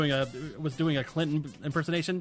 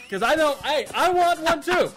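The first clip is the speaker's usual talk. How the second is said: presidential address; 9 semitones higher, 4 dB louder than usual. Acted. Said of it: "do a president voice".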